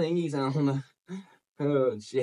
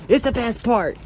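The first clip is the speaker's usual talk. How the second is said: excited cheering; 5 semitones higher, 4 dB louder than usual. Real, not acted. Cheering dog's crazy runs.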